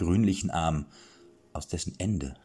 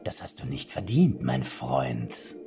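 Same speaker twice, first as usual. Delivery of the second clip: a touch of concern in a mad king's voice; worried old king. Acted. King worries about the knight's insulting name. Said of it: "fragte Schlomo besorgt".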